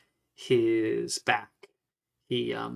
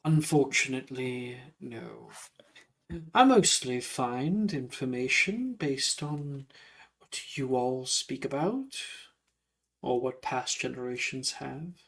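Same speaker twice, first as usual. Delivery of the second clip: politely curious ghost, unhurried; courteous ghostly gentleman; 3 dB quieter than usual. Acted. Ghost answering a student about the school, courteous.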